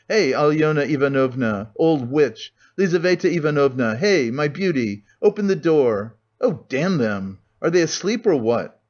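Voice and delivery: angry hammering calls through the door; enraged calling. Acted. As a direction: shout for the women, losing patience.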